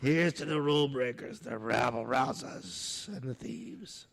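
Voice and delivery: put-on light New York accent on the toast; a slight New York accent, words drawn out slowly. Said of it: "And I said it with a New York accent".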